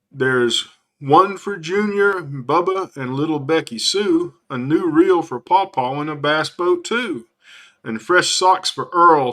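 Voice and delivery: lightly voiced jolly Santa, slow at the start; a hint of a drawling Southern Santa listing presents. Santa handing out gifts to the family, in a light drawl. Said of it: "Santa said with a drawl".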